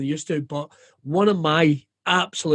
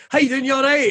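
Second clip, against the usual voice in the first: high-pitched chirpy imitated greeting; mimicking a casual well-wisher; passing greeting; 9 semitones higher, faster than usual. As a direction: pitch it up like a breezy hello. Acting somebody asking in passing.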